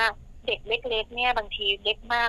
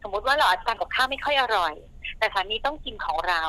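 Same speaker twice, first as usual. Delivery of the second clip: usual speaking voice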